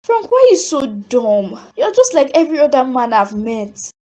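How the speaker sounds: distant, replayed memory of her own words; remembered echo. Sophie hearing her harsh words to Frank again, distant echo. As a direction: let it sound like a far-off echo in her head.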